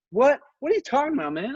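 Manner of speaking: high-pitched, indignant imitation; mock angry. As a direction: act out an offended friend, voice jumping high. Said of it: "he got mad and was like".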